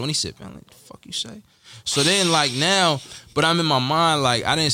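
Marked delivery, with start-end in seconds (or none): 0.4-1.4 mock aggressive whisper. Retold confrontation in line.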